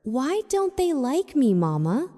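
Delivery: put-on a hurt child barely whispering; small child's whisper. A narrator's reading. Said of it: "Amara's voice was barely a whisper".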